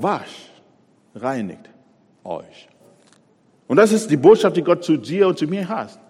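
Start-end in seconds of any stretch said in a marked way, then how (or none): 0.0-2.7 gentle command. Acted. God's gentle call to wash.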